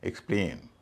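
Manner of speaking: एक्सप्लेन with a full ay in the last syllable; second syllable of एक्सप्लेन stressed and long; एक्सप्लेन said "ik-SPLAYN". Shown as a demonstration. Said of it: "इसका उच्चारण ए ही होगा".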